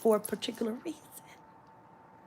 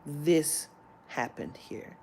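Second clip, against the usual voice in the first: slow emphasis; 4 semitones lower, 4 dB quieter, much slower than usual. Real, not acted. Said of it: "slow emphasis".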